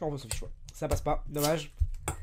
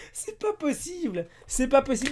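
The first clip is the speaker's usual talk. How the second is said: bien plus aigu, lent puis fort; s'exclamer, sidéré; cri incrédule; 7 semitones higher than usual. Real, not acted. Incrédule devant la culotte. (exclamation aiguë et stupéfaite)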